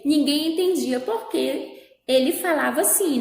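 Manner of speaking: measured read-aloud with lifted questions and short answers; story reading to children. A narrator's reading. Teacher reading a little tale to pupils, story-reading voice. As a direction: read it out clearly, pausing before each one-word reply.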